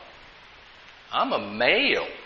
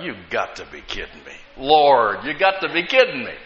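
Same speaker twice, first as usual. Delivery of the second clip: disbelief; 4 semitones lower than usual. Retold or imitated. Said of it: "I thought".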